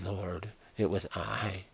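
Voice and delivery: the healed woman owns up to Jesus, soft and slow; timid confession. Acted. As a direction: confess it softly, afraid of being scolded.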